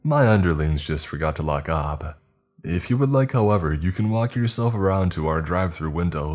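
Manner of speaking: lightly voiced snarky worker; smug, mock-polite refusal; a hint of a smug employee. Worker smugly refuses the customer's order.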